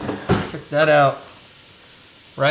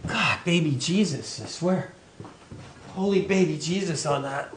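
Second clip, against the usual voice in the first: teary from chopping onions; 3 semitones lower, 8 dB quieter than usual. Real, not acted. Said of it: "The eyes are burning".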